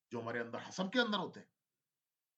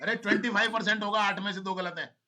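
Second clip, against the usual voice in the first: exasperated teacher; 4 semitones higher, 18 dB louder than usual. Real, not acted. Teacher correcting students' wrong answer.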